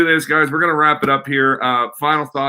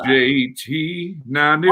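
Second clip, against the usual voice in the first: mock radio ident; 2 semitones higher than usual.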